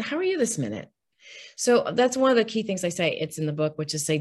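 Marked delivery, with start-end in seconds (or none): 0.0-0.9 sincere. Shown as a demonstration. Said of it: "Just kinda".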